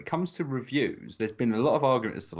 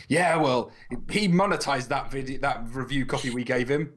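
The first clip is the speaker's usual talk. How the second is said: indignant retort; 2 semitones higher than usual. Retold or imitated. Game developers justifying themselves over a review copy, mock indignant. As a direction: imitate a defensive, put-out retort.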